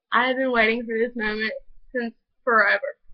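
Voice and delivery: speaking through tears; teary. Real, not acted. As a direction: voice catching with real emotion. Tearful confession of long wait.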